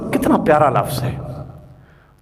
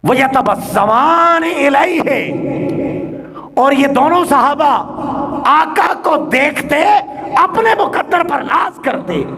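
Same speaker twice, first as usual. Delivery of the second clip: ringing Arabic quotation and translation; impassioned preaching; 8 semitones higher than usual. Real, not acted. Preacher translating the hadith for the congregation, impassioned preaching. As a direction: declaim each phrase, then pause.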